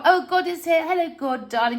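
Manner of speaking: high, sugary mock politeness; prim and proper. Mocking people fawning over God for money, in a high, prim put-on voice. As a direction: simper it like a fake-sweet guest. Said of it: "everyone acts so prim and proper".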